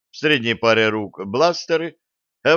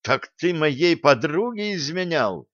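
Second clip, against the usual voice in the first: indignant; 5 semitones higher than usual. Acted. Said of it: "возмутилась".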